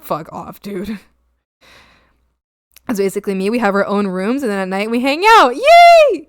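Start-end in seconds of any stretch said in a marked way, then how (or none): 0.0-1.0 tired fuck off. Retold or imitated. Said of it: "I was so tired". 5.5-6.3 very high, loud delighted squeal; excited yay. Real, not acted. Cheering at hanging out nightly.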